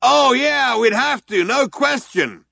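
loud, high, slowing at the end; other cop yelling back. A narrator's reading. Second cop yelling agreement to his partner, loud. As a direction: yell agreement. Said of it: "the other one yelled back".

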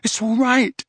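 loud, anxious comforting; loud reassurance. A narrator's reading. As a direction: call it out to get through to him. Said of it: "said Harry loudly".

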